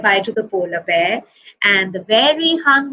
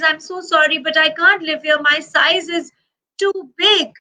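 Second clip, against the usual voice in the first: put-on lightly raised, polite young bear; a sorry little bear, pitched up; polar bear voice; 5 semitones higher than usual.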